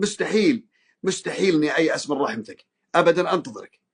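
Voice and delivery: يشكو حاله لربه بصوت رجاء; ارفع الرجاء عند افتح لي; مناجاة خاشعة. Shown as a demonstration. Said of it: "أشكي على الله حالي، أقول". (مناجاة راجية لرب يشكو له ضيق الحال)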